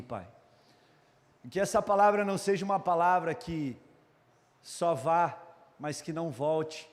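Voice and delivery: measured, pausing prayer to God. Real, not acted. Preacher asks God to speak tonight, in subdued prayer.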